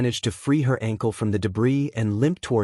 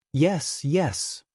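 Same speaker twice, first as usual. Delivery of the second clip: put-on fussy old lady, a bit higher; 4 semitones higher than usual. A narrator's reading. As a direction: brush it aside fussily. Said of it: "recovery girl says fussily".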